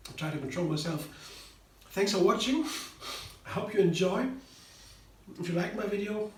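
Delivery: talking through a mouthful; words round a bite of food; mouth full. Real, not acted. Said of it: "Mouth still full".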